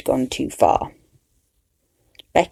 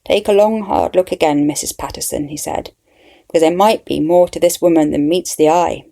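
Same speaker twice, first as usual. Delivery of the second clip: pressing investigator; 3 semitones higher, 3 dB louder than usual. Acted.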